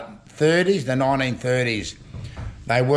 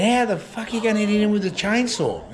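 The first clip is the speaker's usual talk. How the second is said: mock disbelief, much higher; incredulous; 7 semitones higher than usual. Asking the old bloke about the chainsaw, incredulous. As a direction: retell your own astonished question.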